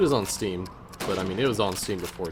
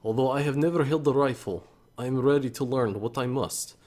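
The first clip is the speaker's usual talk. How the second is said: put-on light Russian accent; 3 semitones higher than usual. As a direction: read on as the Russian recruit, with a touch of accent. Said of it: "I don't know if I can do the Russian accent that well".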